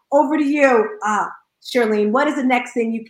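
normal talking voice

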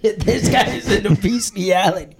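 giggling while mimicking the classmates; laughing mock taunt. Giggling through the classmates' taunt.

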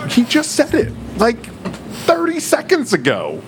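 high, exasperated disbelief; mock the crowd in high-pitched disbelief; incredulous. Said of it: "I'm like".

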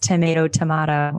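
first "tomato" as to-MAY-to, second "tomato" as to-MAH-to; two pronunciations contrasted. Shown as a demonstration. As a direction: say "tomato" both ways, long A then broad A. Contrasts two ways of saying it.

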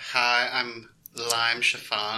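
slow sassy drag queen intro. Pretend. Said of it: "That sounds like a drag queen".

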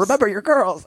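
high southern drawl impression; mimicking a viral southern traveler. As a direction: camp southern gay voice. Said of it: "they've got this southern drawl".

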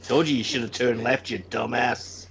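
low, mocking nag; scolding GPS voice. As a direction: scold like a sat-nav.

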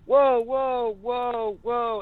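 high-pitched mock whoas, halting someone; imitating alarmed interruption. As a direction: cut in high, as bandmates stopping the take. Bandmates cut off his lyrics.

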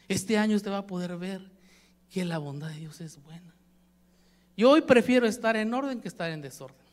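ordinary talk

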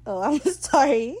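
high, loud apology broken by laughter; laughing apology. Retold or imitated. Retelling Ed's apology to Lucius, laughing. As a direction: imitate an apology while cracking up.

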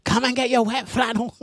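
high hawker call through megaphone. Pretend. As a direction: call it out like a loudspeaker van. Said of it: "she's got the megaphone".

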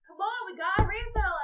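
high, loud call to a friend; acted yell from another booth; yelling over. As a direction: call across a noisy bar. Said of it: "yells over and is like".

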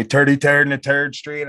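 put-on New York accent, "th" turned to "t" in "turdy turd"; mimicked New York street accent; mock New York accent. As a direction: say "turdy turd" like an old-time New Yorker. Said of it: "I don't have a drawl".

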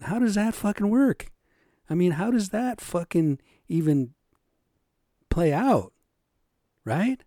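exasperated, outraged questions; agitated rant. Real, not acted. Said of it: "I'm a little bit agitated".

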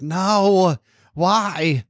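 mock dismayed protest. Host imitating co-host's reaction to the voice, mock dismay. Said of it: "You're like".

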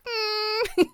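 high, strained squeal of cringe; inner cringe. Retold or imitated. Her inner voice judging posts, a high strained cringe. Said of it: "inside, I'm like".

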